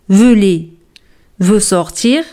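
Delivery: "Voulez-vous sortir?" said slowly with a rise on "sortir"; slow formal question; slow model repetition. Shown as a demonstration. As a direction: drag it out so learners catch the inversion. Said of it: "con la inversión del sujeto".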